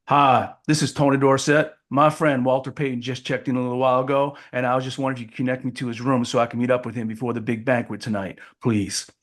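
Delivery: lightly put-on player's voice; Tony Dorsett. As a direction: pose as someone else on the phone, understated. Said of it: "do you know what Tony Dorsett sounds like".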